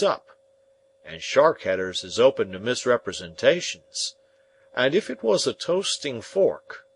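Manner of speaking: a hearty, homely smith; Joe the blacksmith. Acted. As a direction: speak as plain, plodding Joe, weighing every word.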